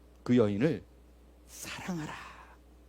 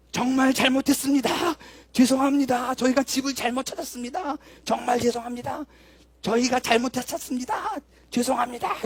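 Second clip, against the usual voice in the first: higher, called out to the whole hallway; loud public apology; 7 semitones higher than usual. Shown as a demonstration. Speaker shows the women how to shout their apology to neighbours, loud and high. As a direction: proclaim the apology so the neighbours hear. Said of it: "이렇게 크게 외치라고".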